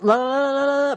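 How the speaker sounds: put-on drown them out like a child with ears covered; mock refusal to listen.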